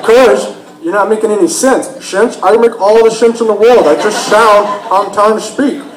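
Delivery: mock the brother's lisping retort; brother's slurred S. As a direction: imitate slushy sh for S. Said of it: "the way he says his S's".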